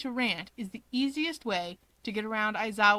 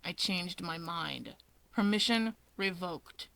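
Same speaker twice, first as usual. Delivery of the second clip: slow, lower, quieter villain voice; low grumbling Dabi; 3 semitones lower, 4 dB quieter, slower than usual. Acted. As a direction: grumble it down low, dragging the words. Dabi growling.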